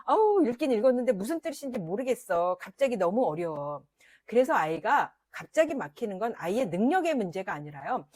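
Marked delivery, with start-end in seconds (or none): 0.0-3.8 lightly voiced child grumbling about schoolwork; a hint of a frustrated pupil; complaining child. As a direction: mildly act out a confused kid's complaint. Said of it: "그래서 애들이 말하죠".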